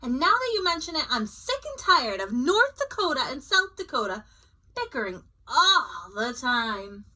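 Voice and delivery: fed up and keen; excited. Acted. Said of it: "Nebraska said excitedly".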